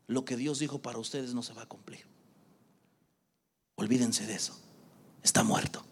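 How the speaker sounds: quoted naysayers, grave and low; grim pronouncement. Retold or imitated. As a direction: pronounce it dead in a low, hushed voice. Retelling brothers' discouraging verdict.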